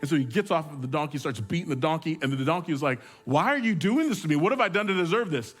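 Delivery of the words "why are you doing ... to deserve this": donkey's complaint. Acted.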